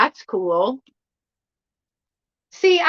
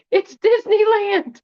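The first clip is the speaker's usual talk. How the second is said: higher, slow amused exclaim; excited; 10 semitones higher, 3 dB louder than usual. Real, not acted. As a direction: laugh it out in delight. Laughing repeat of discovery.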